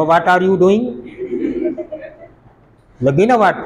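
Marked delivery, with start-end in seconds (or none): 0.0-0.8 "what" said as vaat with long aa; mock misreading. Teacher mimicking those who spoil English, mock misreading. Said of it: "वॉट को पढ़ते हैं वाट".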